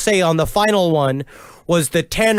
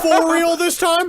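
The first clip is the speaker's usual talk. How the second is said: incredulous, laughing; 8 semitones higher than usual. Real, not acted. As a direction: ask it through laughter. Repeating question, laughing.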